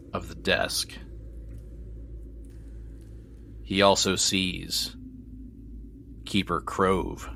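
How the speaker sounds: measured, deliberate scene narration; storytelling voice, unhurried with suspenseful pauses; game master's scene setting. A narrator's reading. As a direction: set the scene room by room, pausing between phrases. Game master describes the rooms.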